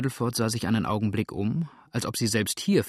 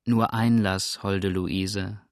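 smiling; much slower than usual. Acted. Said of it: "sagte lächelnd Sander".

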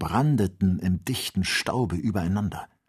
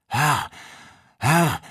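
urgent high calls of alarm; calling out; 7 semitones higher, 5 dB louder than usual. A narrator's reading. Joe calling to stop the hunter, alarmed. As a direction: cry out to stop him. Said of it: "rief Joe".

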